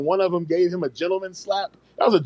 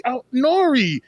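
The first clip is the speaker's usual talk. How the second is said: much higher, incredulous cry; shocked disbelief; 9 semitones higher than usual. Retold or imitated. Teller relives watching Nori blow the candle, high incredulous. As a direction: squeal it like you can't believe it. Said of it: "I was like".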